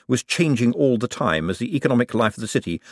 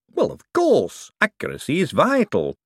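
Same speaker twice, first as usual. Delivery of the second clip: Hubert voice; 9 semitones higher than usual. Acted. Hubert eager.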